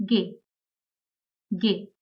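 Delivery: gay with a hard g, "geh"; German letter G. Shown as a demonstration. Teacher showing learners the German G, said gay. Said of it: "in English is pronounced as".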